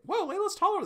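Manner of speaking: high, amazed exclamation; surprised whoa. Real, not acted. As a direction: react in delight. Reader's reaction aside.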